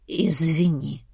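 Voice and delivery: slow, reluctant whispered apology; forced-out whisper. Acted. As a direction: squeeze the word out in shame. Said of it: "выдавил из себя сосед".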